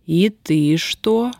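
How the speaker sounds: slowly, dreading the answer; slow question. Acted. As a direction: drag each word out. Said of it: "медленно спросила Устинья". (медленно, с предчувствием беды)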